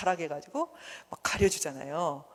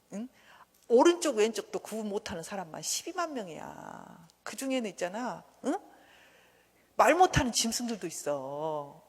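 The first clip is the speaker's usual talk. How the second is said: God reasoning. Acted. God telling Jonah why Nineveh matters, earnestly reasoning. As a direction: plead the case patiently, stretching key words. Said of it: "그 하나님 뭐라 그래요?".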